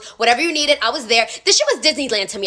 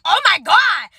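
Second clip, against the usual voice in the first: gushing; 8 semitones higher than usual. Retold or imitated. Gushing over pretty waiter.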